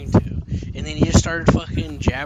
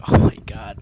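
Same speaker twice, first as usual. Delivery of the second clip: exasperated; 4 semitones lower, 6 dB louder than usual. Retold or imitated. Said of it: "And I'm just like".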